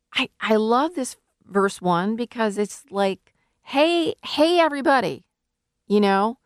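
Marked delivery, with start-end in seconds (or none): 3.6-5.2 high-pitched call to a crowd; mock shout. Preacher hailing everybody who might be thirsty, mock shout. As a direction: hail everybody as if shouting from afar. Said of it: "I just shouted".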